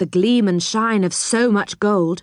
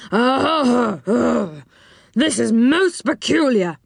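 taken-aback enchanter; 3 semitones higher, slower than usual. A narrator's reading.

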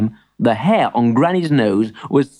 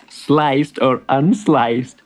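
amused shopkeeper; much slower than usual. Acted. Amused shopkeeper asks slowly.

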